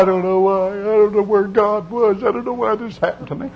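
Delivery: a hint of a woman lost and asking why; bewildered lament. Preacher voicing a diseased woman to the congregation, softly baffled.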